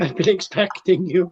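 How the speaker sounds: Bond villain. Pretend. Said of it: "Just sit there like a Bond villain".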